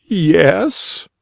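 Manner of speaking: put-on high young boy's voice, a little slow; tearful boy. A narrator's reading. Crying boy answering the rabbit, high young voice.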